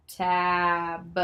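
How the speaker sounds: 'Tab' with a long vowel and separate final b; slow blend. Shown as a demonstration. Teacher blending the sounds together, slow 'Tab'. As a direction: stretch 'Tab' out slowly. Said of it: "say 'em together slowly".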